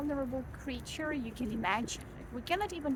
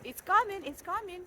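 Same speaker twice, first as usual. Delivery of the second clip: mock urgent announcement, higher and louder at first; hammed-up alarm that it's coming; urgent cat voice; 5 semitones higher, 3 dB louder than usual. Cat voiced by owner announcing her poop, mock urgency. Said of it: "what she's trying to tell us".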